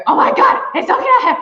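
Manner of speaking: very high, breathless squeal of disbelief; panicked squeal. Retold or imitated. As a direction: shriek it under your breath, starstruck. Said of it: "I go".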